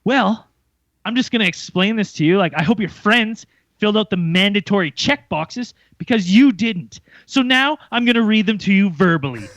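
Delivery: lightly mocking his condescending tone; arrogant attitude. Retelling the rude customs agent, mildly mock-smug. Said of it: "with the most fucking arrogant attitude".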